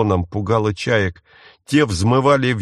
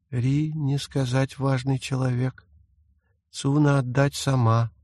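put-on an eerie ghost child insisting; insistent ghost; 4 semitones higher, 4 dB quieter than usual. A narrator's reading. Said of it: "настойчиво сообщил призрак". (настойчивый голос призрака)

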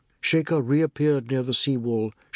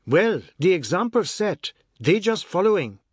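complaining mother; 7 semitones higher, 5 dB louder than usual. Acted. Mother complaining about children.

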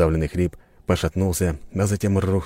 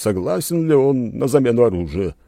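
steward addressing the hall; 6 semitones higher than usual. A narrator's reading. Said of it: "обратился к всем присутствующим".

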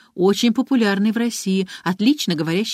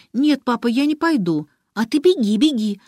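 put-on higher, louder child shouting through tears; tearful cry; 6 semitones higher, 4 dB louder than usual. A narrator's reading. Girl crying at her father to run away, tearful shout. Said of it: "со слезами в голосе крикнула девочка".

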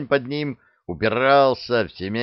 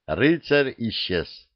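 ordinary delivery, nothing marked

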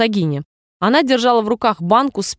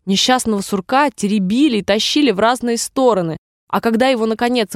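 ordinary delivery, nothing marked

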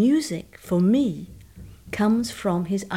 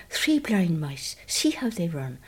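slower, broad Irish lilt; Irish accent; slower than usual. Shown as a demonstration. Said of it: "He had an Irish accent. He spoke like that".

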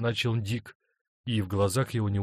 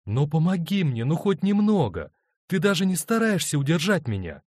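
higher, louder urgent insisting; wife urging her husband, higher and louder; 8 semitones higher, 6 dB louder than usual. Acted. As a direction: press him hard for help. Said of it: "настаивала она".

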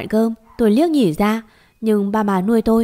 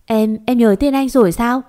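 overjoyed; 3 semitones higher, 4 dB louder than usual. Acted. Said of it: "Cậu Hai Lâm mừng lắm".

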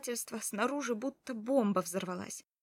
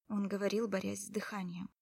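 ordinary delivery, nothing marked

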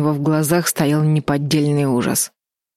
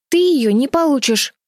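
trying to sound fierce; 10 semitones higher than usual. A narrator's reading. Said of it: "сказала Чарли так грозно".

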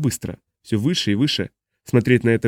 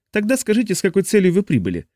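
demanding alien; 9 semitones higher than usual. A narrator's reading. Smoky the alien questions Tennyson.

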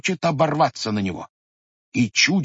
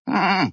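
bleated hm; 7 semitones higher than usual. Acted. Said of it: "проблеял баран".

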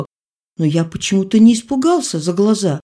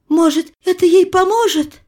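much higher, pleading mother's question; mother begs the doctor for hope, higher; hopeful mother; 12 semitones higher, 4 dB louder than usual. A narrator's reading. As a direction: ask it as a desperate mother clutching at hope. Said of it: "спросила мать".

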